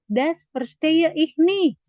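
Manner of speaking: slow teacher model; slow model phrase. Shown as a demonstration. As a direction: spell it out slowly for learners.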